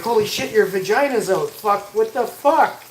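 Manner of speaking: high, loud shocked outburst; freak-out. Acted. Man imagining he's flashed without warning, freaking out. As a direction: act out losing it, stretching the last curse. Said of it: "And I'll snap".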